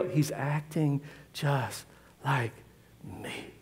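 resigned aside. Retold or imitated.

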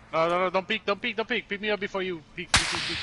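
loud, high urgent warning; urgent shouting. Real, not acted. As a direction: shout to stop him now. Urgent warning to teammate mid-fight.

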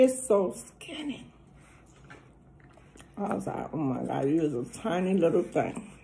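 talking between bites; speaking with food in mouth; mouth full, chewing. Real, not acted. Seen 1: Bite taken at -2s; talks with food, then next forkful enters mouth.

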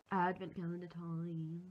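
slow, drawn-out silly deep voice; weird deep voice. Acted. Announcing advent calendar time to vlog viewers, slow goofy deep voice. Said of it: "this really weird deep voice".

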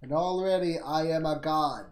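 slow, loud triumphant boast; gloating brag. Real, not acted. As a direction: crow about it slowly. Gloating over his win streak.

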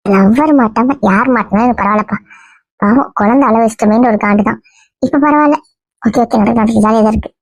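a lightly put-on female voice, playing the girlfriend; man passing himself off as a young woman; woman's voice. Disguised man fooling the family in a mild girl's voice. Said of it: "இன்னும் பொம்பளை குரல்ல தான் பேசுற".

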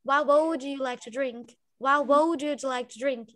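pronúncia britânica, devagar; British accent. Shown as a demonstration. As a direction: bem devagar, sílabas claras. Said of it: "pronúncia de britânico". (sotaque britânico)

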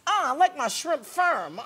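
lightly voiced Mae West, slow; a hint of a sultry Mae West; slow, suggestive Mae West purr, voice barely changed. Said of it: "that's a very Mae West".

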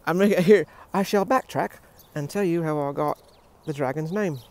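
mock-British storyteller; British accent. Telling how the dragon got named, in put-on British. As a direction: announce it in a playful British accent. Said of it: "apparently you're British, dude".

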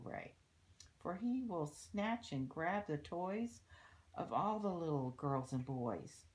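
put-on lilting story verse for children; read-aloud rhyme. A narrator's reading. Reading a rhyme about littering to children, storybook read-aloud. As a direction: read the verse out clearly, in measured phrases. Reads a rhyming book aloud.

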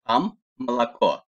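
"malako" with A in both unstressed syllables, O at the end. Shown as a demonstration. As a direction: say "malako" with only the stressed final vowel as O. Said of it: "A da okusanız yeterli olur". ("malako": vurgusuz heceler A, sondaki O vurgulu)

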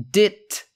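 "dit" said alone as a clipped first syllable; split syllable. Shown as a demonstration. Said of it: "D I T split".

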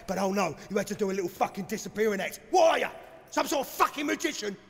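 fast angry outburst; angry rant. Acted. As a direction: rattle it off in a fury. Villain berates the player.

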